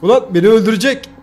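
panic, he is about to kill you; panicked. Real, not acted. Enemy attacks in game. (panik içinde bağırış)

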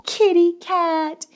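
ordinary talk

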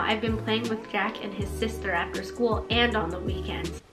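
unvoiced whispered reading. Real, not acted. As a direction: whisper the line. Reading diary under breath.

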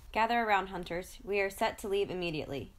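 loud commanding call to the hunt; rally the hunters with a booming order; powerful roar. Acted. Pride leader summoning the hunters before a hunt, loud roar. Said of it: "Timu's powerful roar".

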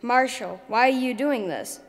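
loud, urgent call; bellowing. Acted. Oddbot calling out to Marshall, a loud bellow. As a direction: bellow it at the eagle. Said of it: "bellowed Oddbot".

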